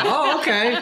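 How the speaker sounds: high, sarcastic reply; mock exasperation. Friend answering a six-day-old betting tip, mock exasperated. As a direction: scold him comically, slowing on the insult.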